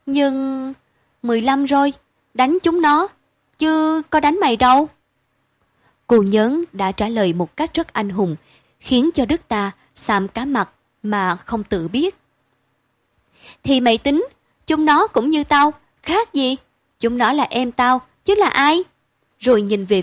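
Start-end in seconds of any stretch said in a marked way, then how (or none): 0.1-4.9 indignant protest. Acted. Đức protests, child voiced. 13.6-18.8 she can't see why he asks; insistent. Acted. Nhớn insists they are siblings.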